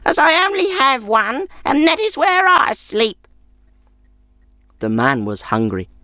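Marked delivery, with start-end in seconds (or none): 0.1-3.3 put-on very high crabby old woman voice; grumpy old woman. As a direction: sour old crone refusing. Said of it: "she added".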